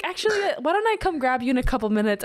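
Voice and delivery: polite stalling. Retold or imitated. Zach politely putting off the interruption, fast. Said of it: "He definitely could have been like".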